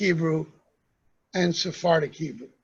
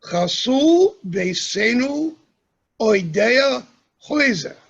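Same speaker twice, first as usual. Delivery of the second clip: slow, lilting Ashkenazic Hebrew with penultimate stress; 3 semitones higher, 4 dB louder, slower than usual. Shown as a demonstration. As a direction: recite it in Ashkenazic pronunciation, letting it flow. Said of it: "In Ashkenazic Hebrew".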